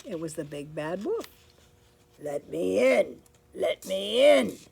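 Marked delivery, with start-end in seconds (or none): 2.2-4.6 growled. Acted. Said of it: "he growled".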